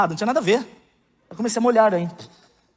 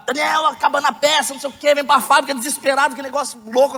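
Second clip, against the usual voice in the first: higher, hurried imitation of a panicked caller; frantic caller; 8 semitones higher than usual. Factory calls him at 3 a.m., imitating a panicked caller. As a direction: rattle it off like a stressed boss on the phone.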